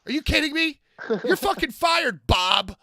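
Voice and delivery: high-pitched outraged shout; retold yell. Wrestler firing the sound guy mid-show, mock-furious yell. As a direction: re-enact an exasperated firing. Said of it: "I yelled at the sound guy".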